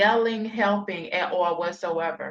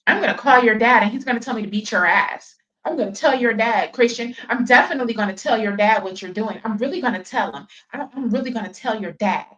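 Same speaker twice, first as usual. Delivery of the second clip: fast, louder nagging threats; mock threatening mom; 2 semitones higher, 3 dB louder, faster than usual. Mocking mom threatening Christian with his dad, fast. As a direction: rattle off the threat to tell dad. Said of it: "you was threatening to call Gerard".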